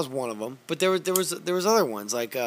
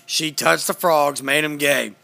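lightly voiced, louder ranting host; Alex Jones impression; 5 dB louder than usual. Doing Alex Jones for friends on a podcast, mild loud rant. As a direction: rant on with mock certainty. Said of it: "This is Alex Jones reporting to you".

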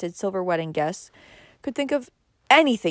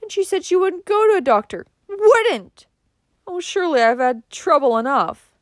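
high, loud distressed complaint; moaning; 12 semitones higher, 5 dB louder than usual. A narrator's reading. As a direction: lament it, exasperated and high. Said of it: "moaned Missus Frederick".

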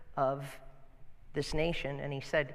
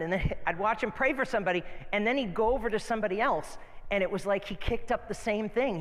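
amused; 4 semitones higher than usual. Real, not acted. Pastor recalls amused, speeding up.

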